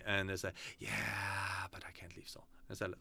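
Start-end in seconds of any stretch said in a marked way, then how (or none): 0.8-2.5 drawn-out yeah, then sinking very soft; reluctant excuse. Retold or imitated. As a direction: mimic someone backing away from the idea. Acting out people's reluctant excuse.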